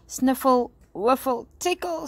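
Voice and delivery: high little creature voice, rising; lightly voiced dragon about to sneeze; ticklish dragon. A narrator's reading. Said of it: "said Sparky".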